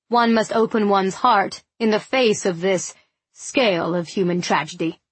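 lightly voiced solemn orator, measured and weighty; a touch of grand speechifying to console a lady; pompous gentleman. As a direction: declaim it slightly, as a self-important man would. Narrator voices Mister Tillingham.

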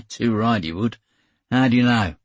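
easygoing Australian sailor, amused; raw Australian accent. Acted. Kane quizzing the narrator, light Australian accent. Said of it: "in a raw Australian accent".

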